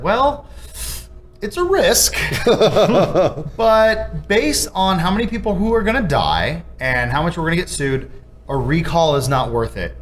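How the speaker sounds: high, laughing mock executive. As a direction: play a callous boss, laughing. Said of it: "they basically had a chart that said".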